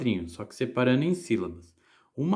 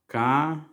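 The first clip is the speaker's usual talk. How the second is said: "Caneta" split into ca, ne, ta with pauses; syllable by syllable; 3 semitones higher than usual. Shown as a demonstration. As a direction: say "Caneta" as three separate syllables. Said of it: "Fala a palavra".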